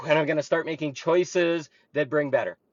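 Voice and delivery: calm acceptance. Shown as a demonstration. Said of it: "Take a moment and say".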